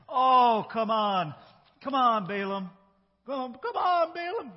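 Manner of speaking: high, loud pleading whine; begging. Shown as a demonstration. Messenger begging Balaam on Balak's behalf, high pleading whine. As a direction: beg like a kid nagging for a treat. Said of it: "and this time you gotta beg".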